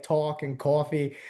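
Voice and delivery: slow New Jersey/New York vowels on talk and coffee; a touch of New York accent. Shown as a demonstration. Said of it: "I hear it in, like, some words".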